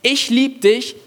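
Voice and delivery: "lieb" pitched high in a sing-song mocking tone; mock conditional love. Preacher to the church, mocking conditional love. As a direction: parody a demanding lover. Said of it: "Nicht, Ich lieb dich, wenn".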